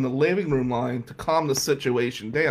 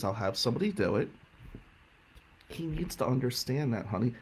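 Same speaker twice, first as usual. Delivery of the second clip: calm warning; 3 semitones lower than usual. Retold or imitated. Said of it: "Aunt Mare calmly says to me".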